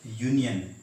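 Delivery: यूनियन begun with a "ye" glide; Y sound at start. Shown as a demonstration. Teacher shows it is no vowel, यूनियन starting with Y. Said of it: "ये।".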